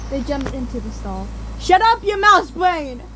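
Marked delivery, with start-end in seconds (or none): 1.6-3.0 loud, high insulting hiss-shout; furious loud insult; angry hiss. A narrator's reading. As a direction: hurl the insult. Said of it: "I hissed at Wolfsnarl".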